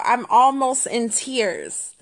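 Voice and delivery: slow, drawn-out mock distress; mock near tears. Telling people it is real life, mock near tears. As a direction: stretch it out as if close to tears.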